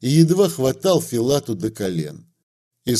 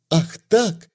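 ringing retort; 5 semitones higher than usual. A narrator's reading. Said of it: "звонко возразила Аннушка".

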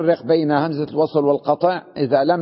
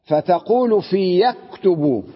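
reading the text aloud; slower than usual. Retold or imitated. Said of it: "قال".

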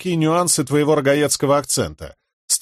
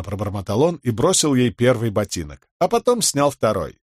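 usual speaking voice

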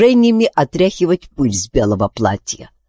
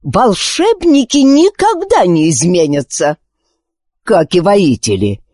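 spiteful, stress on никогда; more spitefully; 4 semitones higher than usual. Acted. Encanzo snapping back at the queen, spiteful. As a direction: snap it back with malice. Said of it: "ещё более злобно отозвался Энканцо".

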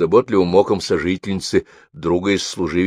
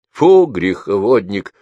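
louder, slow scornful snort of reproach; snorting disapproval; 6 dB louder, slower than usual. Acted. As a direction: scoff at the old sinner. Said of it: "фыркнула Таисия Никитична".

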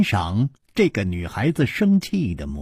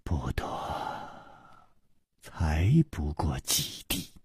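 cold whisper; 7 semitones lower, 11 dB quieter than usual. A narrator's reading. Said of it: "冷冷地说".

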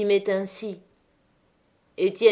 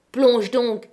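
harsh order; 3 semitones higher, 6 dB louder than usual. Acted. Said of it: "répétait la brûlée".

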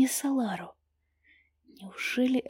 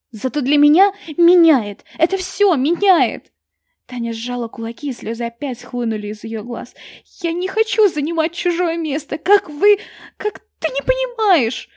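loud, much higher tearful cry; tearful shout; 5 semitones higher, 9 dB louder than usual. A narrator's reading. Таня кричит Сильверу сквозь слёзы. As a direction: shout it through angry tears. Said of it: "крикнула она сквозь злые несчастные слёзы".

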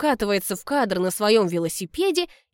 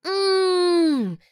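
pleased hum while chewing; 9 semitones higher than usual. Acted. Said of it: "закатываю глаза, хрустя кусочком яблока".

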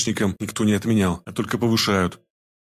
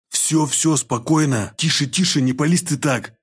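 plain reading voice

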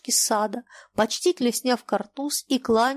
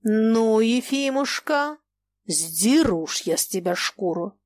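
menacing threat; slower than usual. Acted. Old master threatening the captain, menacing. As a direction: promise it coldly.

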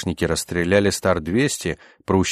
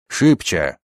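louder, urgent one-word yell; 5 dB louder than usual. A narrator's reading. Вихура hurrying prisoners through the wardrobe, yelling. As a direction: push them on with a raised voice. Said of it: "орал Вихура".

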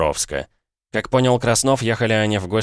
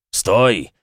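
shout; 3 semitones higher, 5 dB louder than usual. Acted. Rider calls after bolting horse.

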